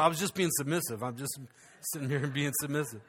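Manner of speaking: a lightly voiced meek husband, dropping quiet; hint of a sheepish husband, trailing off. Husband excusing himself to the wives, sheepish and quiet. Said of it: "The husbands are going".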